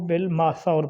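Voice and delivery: بالماثور ending "-saur"; common mispronunciation. Retold or imitated. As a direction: say بالماثور as "bil-maasaur". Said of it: "اکثر لوگوں سے سنا".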